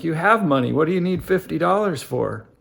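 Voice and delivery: a touch of an exasperated father; lightly voiced irritated dad; frustrated dad. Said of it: "And dad's frustrated now".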